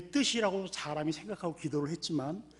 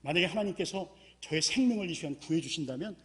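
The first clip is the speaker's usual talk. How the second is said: pleading prayer, rising higher at the end; desperate prayer; 5 semitones higher than usual. Retold or imitated. Man clinging to a root begging God, lightly acted pleading. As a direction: beg God for rescue. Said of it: "간절히 부르짖었습니다".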